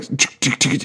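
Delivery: quiet clicked ticks; tongue click. Retold or imitated. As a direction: click your tongue softly. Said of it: "that's literally what the sound is".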